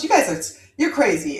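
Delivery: lightly imitated Jamaican aunt; a touch of Jamaican accent, dismissive. Aunt brushes off the children's story, light Jamaican accent. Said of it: "in her Jamaican accent".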